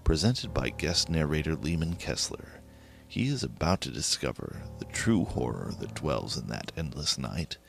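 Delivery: ordinary delivery, nothing marked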